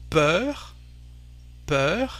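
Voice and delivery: peur with an open "uh" vowel, rising; open French eu. Shown as a demonstration. Teacher giving an example of E and U, open French eu. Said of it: "so the sound E".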